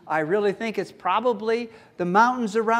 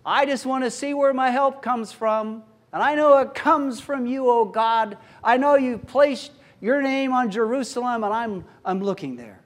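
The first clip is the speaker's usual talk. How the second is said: confident psalmist; 4 semitones higher than usual. Acted. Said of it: "I think he's looking and saying".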